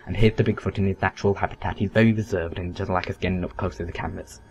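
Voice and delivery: hushed wildlife narrator; nature documentary. Retold or imitated. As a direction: softly narrate like a wildlife film. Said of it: "some sort of nature documentary".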